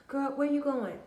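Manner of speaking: prying witch. Retold or imitated. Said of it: "something so simple like".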